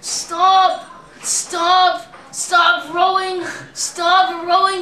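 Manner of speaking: hammed-up British PA warning, drawn out; British PA announcer. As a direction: call out urgently like a British race announcer. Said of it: "This is my best British accent".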